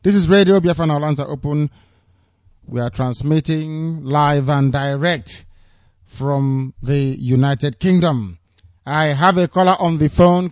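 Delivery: slow, measured station announcement; radio announcer. Acted. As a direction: announce the station live on air.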